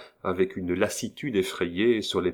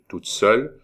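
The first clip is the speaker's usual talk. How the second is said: surprised question; 3 semitones higher, 6 dB louder than usual. A narrator's reading. Incredulous question.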